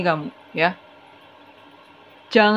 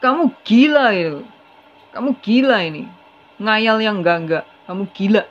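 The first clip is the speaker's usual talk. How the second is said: hammed-up husband calling his wife crazy; the cheating husband turning the blame on his wife, mock angry; mock insulting accusation. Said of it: "ngatain si B".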